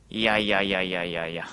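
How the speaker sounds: low, soft string of いや, shaking it off; disbelieving no. Real, not acted. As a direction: mutter いやいや in quiet disbelief. Rejecting group behavior.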